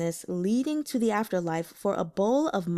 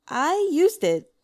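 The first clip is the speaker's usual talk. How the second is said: slow, high, uneasy admission; awkward hesitation; 7 semitones higher, 5 dB louder, slower than usual. A narrator's reading. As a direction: drag it out, caught off guard. A strange expression came over.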